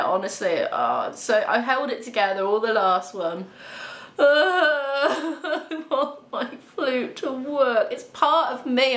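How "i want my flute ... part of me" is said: slow, tearful words breaking through a laugh-cry; fighting back real tears over the broken flute. Real, not acted. Vlogger confesses to viewers her love for her flute, close to real tears. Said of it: "I was almost in tears with it".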